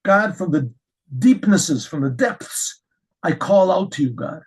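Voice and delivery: fervent prayer. Shown as a demonstration. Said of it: "No, doesn't work".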